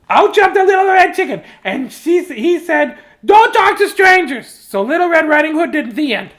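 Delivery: high, loud shrill chick shout; chicken voice. Acted. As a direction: burst in yelling as the chicken. Chicken interrupts loudly.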